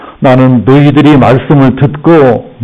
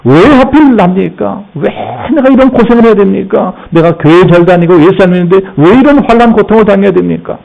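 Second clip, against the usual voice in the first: arguing with God; 5 semitones higher than usual. Retold or imitated. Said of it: "하나님께 따지는 사람도 있죠".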